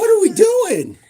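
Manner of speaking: high loud question through laughter; laughing. Real, not acted. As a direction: let the laugh break through it. Repeats it laughing.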